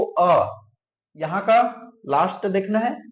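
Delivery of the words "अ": अ said alone after a tiny break; sounded-out final vowel. Shown as a demonstration. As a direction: sound out अ by itself for learners. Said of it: "धन को बोल के देखो".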